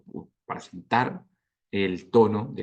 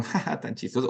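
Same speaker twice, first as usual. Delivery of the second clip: mock laugh; 3 semitones higher than usual. Shown as a demonstration. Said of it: "Estoy diciendo como".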